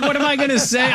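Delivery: mock exasperation. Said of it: "I'm like".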